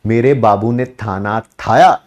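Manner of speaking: cooing girlfriend mocks baby talk. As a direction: coo it like a clingy girlfriend. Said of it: "खाना, है ना".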